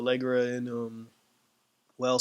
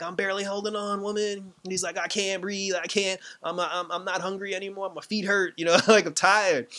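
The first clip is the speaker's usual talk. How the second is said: higher-pitched, mock-weary excuses; mock complaining; 5 semitones higher than usual. Worn-out husband making excuses to his wife, mock complaining. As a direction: lightly whine through a list of ailments.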